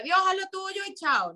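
mock breezy dismissal. Mother mocking the idea of just leaving it to God, breezy. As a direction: mimic someone shrugging off all responsibility. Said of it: "no es como que".

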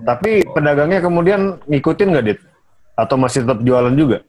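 glitchy robot voice over a bad connection; choppy, garbled robotic call audio. Real, not acted. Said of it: "suara kamu jadi robot".

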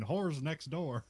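slow, calm, unbothered line; calm barkeeper. Retold or imitated. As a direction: barkeeper calmly brushing off Ellen, slow and flat. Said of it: "he just calmly just says that again".

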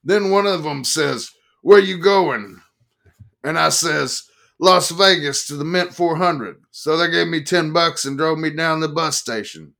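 loud, high, rough-edged biker telling his tale; rowdy biker. Acted. Harley-shirt biker telling the press crowd his trip, loud and high. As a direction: play the boozy biker bragging to the crowd.

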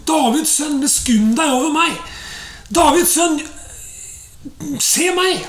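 retold calling out. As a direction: imitate a plea called out, without real volume. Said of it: "han ropte enda høyere". (etterlignet, dempet rop om nåde)

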